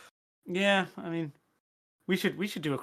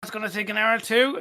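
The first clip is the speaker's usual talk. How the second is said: lightly higher, smug self-imitation; smug worker voice; 7 semitones higher, 7 dB louder than usual. Lazy coder tells his manager the build takes hours, smug and higher. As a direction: say it like you're skiving, pleased with yourself.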